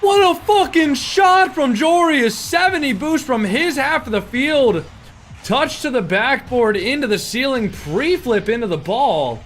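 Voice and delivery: high, loud, slow hype; hyped commentary. Real, not acted. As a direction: gush over the shot, slowly. Hyped replay of the goal.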